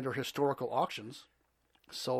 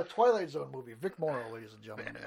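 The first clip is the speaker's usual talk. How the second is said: laughing; 3 semitones lower, faster than usual. Real, not acted. Laughing repeat.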